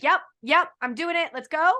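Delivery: bright imitated excitement, ready to jump in; mock eager yes. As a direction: play the gung-ho decider. Host acts out an eager yes.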